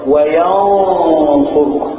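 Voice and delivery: "وينصرك" very slow, the نون hidden as a nasal hum before the ص; slow nasal glide through "وينصرك"; ikhfa demo. Shown as a demonstration. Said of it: "ده مثال".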